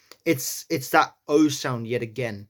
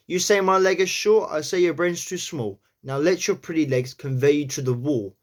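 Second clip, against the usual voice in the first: New York accent; 3 semitones higher than usual. Shown as a demonstration. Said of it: "line that we have is".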